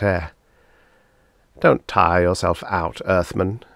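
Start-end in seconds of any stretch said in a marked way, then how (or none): 1.6-3.6 a light mocking taunt; lightly mock the Earthman. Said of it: "the alien said mockingly".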